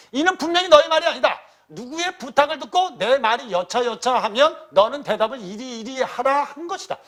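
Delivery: high, loud acted accusation; great anger. Uncle accusing his nephew of being coached, great anger. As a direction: raise pitch and volume to accuse the child. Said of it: "위진이 크게 놓아여 말하기를".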